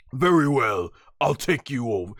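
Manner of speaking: lightly voiced resigned fighter, falling in pitch; imitated swallowed-pride surrender; Vegeta. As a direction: concede grudgingly, letting the voice drop. Acts out Vegeta swallowing his pride.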